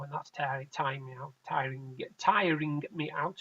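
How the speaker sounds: half asleep, words dragging out; nodding off. Real, not acted. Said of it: "Sorry, I'm talking half asleep".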